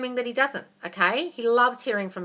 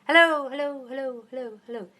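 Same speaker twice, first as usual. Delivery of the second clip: imitated mountain echo; 4 semitones higher than usual. Shown as a demonstration. Coach acting out yelling at a mountain, fading echo. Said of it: "yell at a mountain".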